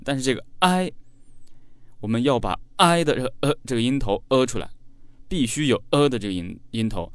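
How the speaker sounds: ordinary talk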